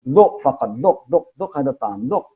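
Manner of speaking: repeating, coaxing to taste; Arab host urging a taste. Retold or imitated. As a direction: gently urge a single bite. Arab host urges tasting.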